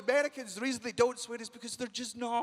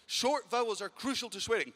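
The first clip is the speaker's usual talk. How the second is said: ordinary delivery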